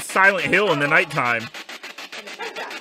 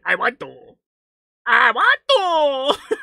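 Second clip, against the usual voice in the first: hammed-up little goblin imitation, rising higher; creepy goblin; 9 semitones higher than usual. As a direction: build into a silly, high goblin voice. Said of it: "just a little frickin' creepy goblin".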